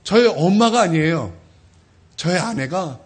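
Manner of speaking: ordinary talk, nothing marked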